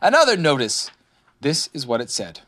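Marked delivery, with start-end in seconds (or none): 0.0-0.9 raised, pleased exclamation; delighted little discovery; happy. A narrator's reading. Rabbit finds another notice, happy. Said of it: "feeling quite happy again".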